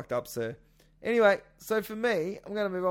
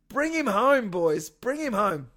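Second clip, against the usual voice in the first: rallying cry; 3 semitones higher, 6 dB louder than usual. Real, not acted.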